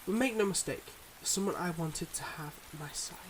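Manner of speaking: measured, heartfelt confession with long pauses; earnest secret-life lover. Acted. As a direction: confess gently but seriously, pausing between thoughts. Acts a secret-life lover's farewell.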